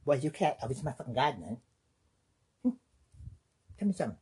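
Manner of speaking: lightly voiced angry neighbor. Irate neighbor yelling about the cat in the garden, lightly played. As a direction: confront him over the cat, half-playful.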